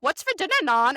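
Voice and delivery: badly faked Irish accent; half-hearted mock Irish accent; terrible Irish accent. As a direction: attempt a light, unconvincing Irish lilt. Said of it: "that was a terrible I-, Irish accent".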